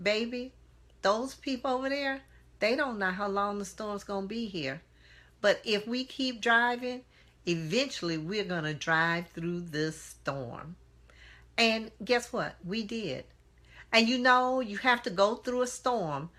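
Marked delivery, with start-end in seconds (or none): 0.0-10.8 calm aunt. Retold or imitated. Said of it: "she just as calmly looked at me and said".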